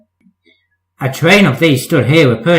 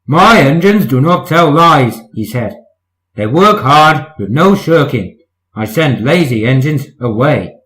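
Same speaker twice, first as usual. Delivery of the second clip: severe. Acted. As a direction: lay down the law to Daisy. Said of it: "spoke severely to Daisy".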